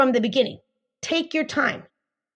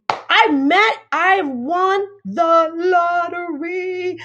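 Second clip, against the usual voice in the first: thrilled; 5 semitones higher, 3 dB louder, much slower than usual. Retold or imitated. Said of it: "you're thinking".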